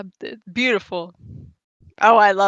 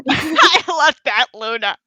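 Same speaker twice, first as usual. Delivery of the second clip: laughing; 4 semitones higher, slower than usual. Real, not acted. Laughing while speaking.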